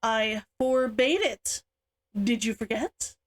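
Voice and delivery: a touch of a growl, slow and firm; lightly voiced stern sister, slow and firm; mild growl. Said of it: "Himiko growled".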